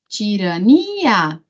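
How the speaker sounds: drawn out slowly, syllable by syllable; slow syllable demo. Shown as a demonstration. Teacher to students, spelling it out slowly. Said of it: "ó, eu falo".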